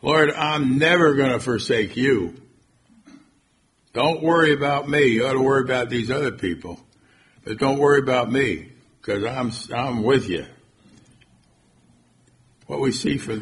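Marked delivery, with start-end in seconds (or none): 0.0-10.4 raised, emphatic boast of loyalty; mildly acted self-assured pledge; confident. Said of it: "And he was confident".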